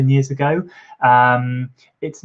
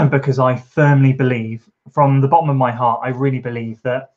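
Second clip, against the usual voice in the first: a touch of a lump in the throat, pushing through; getting emotional; 3 dB louder than usual. Real, not acted. Runner wishing a friend luck, getting a little choked up. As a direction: voice catching with real emotion. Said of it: "I sound like I'm getting emotional".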